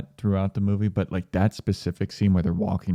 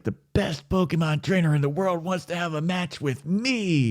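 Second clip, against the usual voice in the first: put-on a higher, starry-eyed kid voice; excited; 7 semitones higher, 3 dB quieter than usual. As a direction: gush it like a thrilled kid. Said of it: "Ash is all excited".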